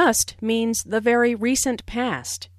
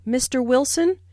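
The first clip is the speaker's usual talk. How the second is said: "Mister Wilson" with the voice rising on "Wilson"; rising intonation. Shown as a demonstration. Teacher demonstrating to students, rising tune on "Wilson". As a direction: lift the end of "Wilson" to address him. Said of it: "Notice the rising intonation on".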